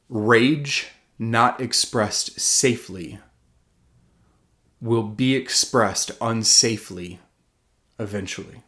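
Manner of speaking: slow it down, weigh each word; slow, deliberate quote. Shown as a demonstration. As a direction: let each phrase land slowly. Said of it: "Let me say that again".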